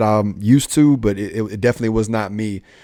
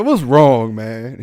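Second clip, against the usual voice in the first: with attitude; 4 dB louder, much slower than usual. Retold or imitated. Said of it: "I can see you asking with attitude".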